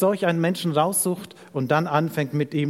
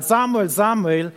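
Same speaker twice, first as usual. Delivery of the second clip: slow, mildly raised name call; 3 semitones higher than usual. Acted. The Lord calls Samuel a second time, calling out. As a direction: draw out each name as a call. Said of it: "Herr rief noch einmal".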